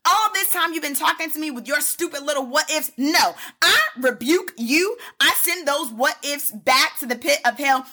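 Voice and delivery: preacher rebuking the devil; rebuke to the devil. Acted. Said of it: "rebuking the devil".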